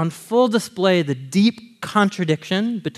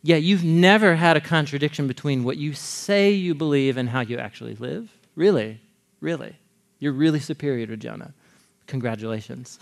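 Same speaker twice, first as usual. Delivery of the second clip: sarcastic challenge; 3 semitones lower than usual. Retold or imitated. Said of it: "and he's saying".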